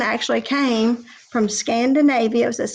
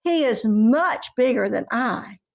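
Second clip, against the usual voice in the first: higher, begging middle goat; pleading goat; 4 semitones higher than usual. Acted. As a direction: beg him to wait, pitched up. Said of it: "second billy goat said".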